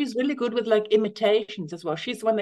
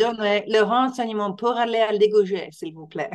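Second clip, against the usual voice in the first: textbook French. Retold or imitated. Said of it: "I learned in French".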